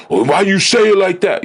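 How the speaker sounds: high, indignant mock whine; imitating someone taking offense at the tone; offended whine. Listener offended by a correction, in a high mocking whine. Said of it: "instead of like".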